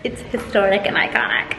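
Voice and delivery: breathy whispered aside. Pretend. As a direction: whisper it like a secret. Aside after posh quote.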